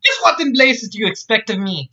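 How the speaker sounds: indignant, high-pitched Scots woman; Scots accent. Acted. Scotswoman demanding an answer from Jack, indignant Scots accent. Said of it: "she said in a Scots accent".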